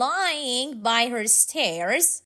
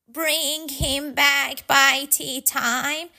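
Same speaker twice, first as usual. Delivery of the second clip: slow, friendly calling out; called out; 4 semitones higher, 3 dB louder, slower than usual. Acted. Missus Cox calling after Franklin as he leaves with the dog. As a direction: call after him as he leaves. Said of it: "Missus Cox called".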